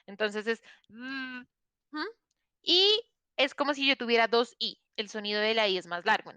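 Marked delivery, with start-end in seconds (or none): 0.9-2.1 drawn-out voiced buzz; demo of the buzz. Shown as a demonstration. Teacher showing the voiced vibration of th. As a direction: hum the buzz long to show the vibration. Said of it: "la lengua vibra".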